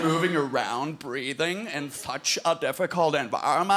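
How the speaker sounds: low, awed musing at fish; mock marvelling. American girl marvelling at aquarium fish, low. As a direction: gape at the fish in wonder. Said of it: "looks at the fish".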